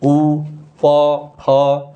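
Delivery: each sound said separately and held; teacher isolating उ, प, फ; letter sounds demonstrated. Shown as a demonstration. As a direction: sound out उ, प, फ one by one. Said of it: "जैसे बोलते ही".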